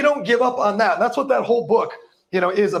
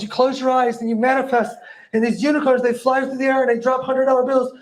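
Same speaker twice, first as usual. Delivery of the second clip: lilting, raised fairy-tale mockery; mock wonder; 4 semitones higher than usual. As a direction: spin the fantasy with fake delight. Mocks wishful manifesting fantasy.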